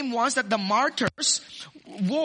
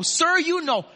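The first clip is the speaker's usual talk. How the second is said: higher, pleading ask; John begging the elder for the answer, pleading higher; eager pleading; 6 semitones higher than usual. Retold or imitated. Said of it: "John wants to know".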